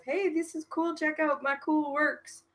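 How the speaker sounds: high-voiced, lightly acted show-and-tell; show-off pitch. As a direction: play someone plugging their own work, high and soft. Acting out a self-promotion pitch.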